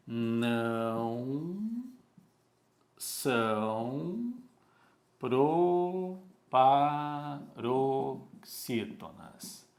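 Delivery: each word set apart, proparoxítonas drawn out very slowly. Shown as a demonstration. Teacher to students, slow emphatic warning. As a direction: spell it out slowly for the class, one word at a time. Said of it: "teacher stressing each word".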